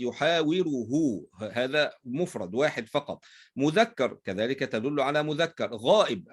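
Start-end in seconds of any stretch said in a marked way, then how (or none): 0.0-1.2 drawn-out "يحاوره" ending in a long -hu; demonstrated pronoun ending. Shown as a demonstration. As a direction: slowly sound out "يحاوره", holding the final hu. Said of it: "كذلك تدل على مفرد".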